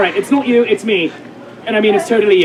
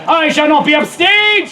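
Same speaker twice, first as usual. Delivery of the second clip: mildly raised indignant cry; 3 semitones higher than usual. Acted. Narrator as Brutus after Cassius dies, crying out. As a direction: declaim it in mock outrage. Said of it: "Brutus cries out".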